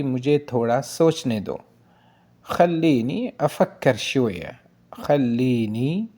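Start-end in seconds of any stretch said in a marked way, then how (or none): 2.5-4.6 slow Arabic model phrase. Shown as a demonstration. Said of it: "यानी जैसे हमको कहते हैं ना". 5.0-6.1 slow single word. Shown as a demonstration. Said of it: "यानी जैसे हमको कहते हैं ना".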